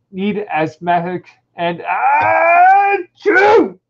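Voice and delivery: slow build into a high hammed-up sneeze; mock sneeze. Reading aloud, allergic human builds to a sneeze, hammed-up. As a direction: drag it out then sneeze big.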